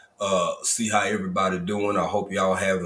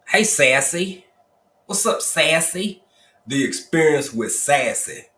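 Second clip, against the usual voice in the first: much higher, louder, slow name call; hyped greeting; 6 semitones higher, 4 dB louder, slower than usual. Real, not acted. Host greeting a viewer named Sassy, high and excited. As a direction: sing out her name with delight.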